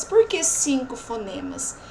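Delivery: ordinary delivery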